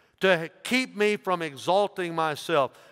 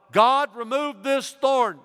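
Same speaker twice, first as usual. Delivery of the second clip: louder, higher plea to God; louder pleading; 8 semitones higher, 5 dB louder, slower than usual. Retold or imitated. Paul begging God again to remove the thorn, louder and higher. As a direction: cry out the request harder.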